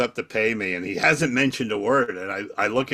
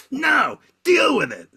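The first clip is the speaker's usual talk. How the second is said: much higher, louder, slow yelled retort; mock shouted refusal; 6 dB louder than usual. Guy on stage yelling his refusal at the comic, mock shout. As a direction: bellow the refusal back, stubborn. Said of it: "And he's going".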